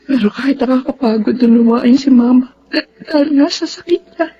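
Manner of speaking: tearful voice breaking through the words; crying. Acted. To Andres, grieving her mother, tearful. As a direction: speak through tears about caring for her.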